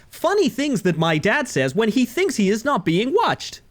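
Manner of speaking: put-on TikTok text-to-speech voice; TTS voice. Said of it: "like, the T T S voice".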